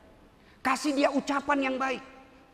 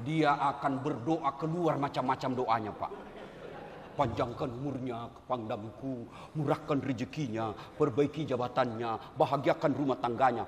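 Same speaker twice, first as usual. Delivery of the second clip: grateful wife; 10 semitones lower, 3 dB quieter than usual. Retold or imitated. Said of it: "ini istrimu di rumah".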